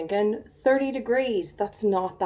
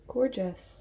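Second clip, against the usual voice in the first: soft breathy whisper of delight; 5 dB quieter than usual. Real, not acted. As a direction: breathe the word in admiration. Admiring the flowers, whispered.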